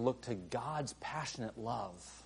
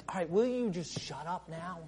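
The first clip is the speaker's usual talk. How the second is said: loud, fed-up brush-off; hammed-up annoyed deity; mock exasperated God; 9 semitones higher, 11 dB louder than usual. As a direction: snap like an impatient God.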